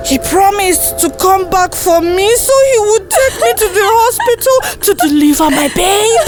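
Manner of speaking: high, distraught lament; anguished, high-pitched tearful telling; grieving ghost. Acted. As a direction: let it climb toward a sob. Ghost laments her broken promise.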